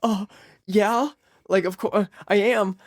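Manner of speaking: flustered admission, pitched high; embarrassed. Retold or imitated. Teen caught on the toilet admits it to mom, flustered. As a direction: caught out and squirming. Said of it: "my face goes red".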